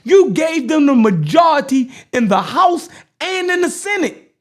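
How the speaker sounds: emphatic oratory in deliberate, separated phrases; measured, forceful speechmaking; political speech delivery. Acted. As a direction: deliver it like a speech to a crowd, punching key words.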